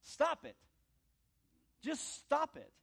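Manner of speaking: high, loud repeated order to the devil; rebuking the devil, loud and high; defiant shout. Acted. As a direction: yell it at the devil, fed up. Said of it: "is to say".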